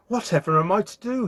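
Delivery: mildly despairing wail of thought; miserable. A narrator's reading. Prince turned into a dog, mildly miserable. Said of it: "he thought miserably".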